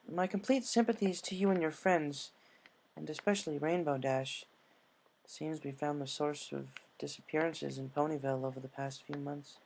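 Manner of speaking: lightly voiced sympathetic royal; a hint of a gentle ruler's tone; gracious princess.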